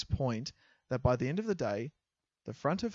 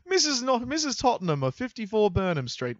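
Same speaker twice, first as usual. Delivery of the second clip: English accent; 8 semitones higher, 5 dB louder than usual. Shown as a demonstration. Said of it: "What accent's that?".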